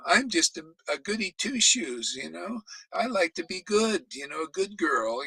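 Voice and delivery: lightly voiced prissy goody two-shoes; mock goody two-shoes. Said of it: "they get like".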